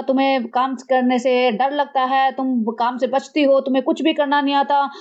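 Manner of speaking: put-on talking down like to a little girl; condescending scolding, mildly voiced; mock patronizing lecture. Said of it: "Sunny उसको ऐसे explain कर रहा है जैसे बिल्कुल ना दस बारह साल की लड़की हो". (बच्चे को समझाने वाला ताना)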